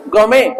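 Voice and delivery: गौ में finished on "may", T unspoken; silent T. Shown as a demonstration. Teacher models for students, गौ में with silent T. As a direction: leave the T off गौ में. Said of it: "टी silent है यहाँ पे".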